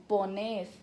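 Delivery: "poned" stressed on its final syllable; stress on last syllable. Shown as a demonstration. Teacher showing where vos forms take stress, final syllable. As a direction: lean on the second syllable of "poned". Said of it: "sempre a última sílaba tônica".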